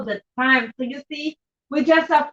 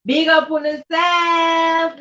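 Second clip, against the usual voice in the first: hyped shout-out; 4 semitones higher, much slower than usual. Real, not acted. Shouting out viewers on stream.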